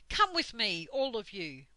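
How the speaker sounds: commanding Dame Slap. Acted. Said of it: "Dame Slap".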